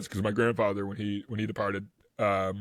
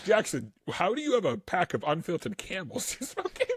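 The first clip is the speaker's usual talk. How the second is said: higher-pitched mock Boston accent; bad Boston accent; 8 semitones higher than usual. Ribbing Jackson about cigarettes, bad Boston accent. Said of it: "a wicked bad Boston accent".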